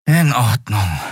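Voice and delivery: put-on a touch of resigned boy; resigned sigh. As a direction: give in with a sigh. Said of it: "seufzte er resigniert".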